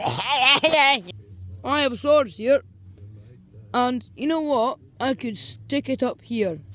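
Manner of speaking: loud hammed-up menace; mock threat. Boy threatening the girls with a sword, hammed-up. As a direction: threaten them like a cartoon villain.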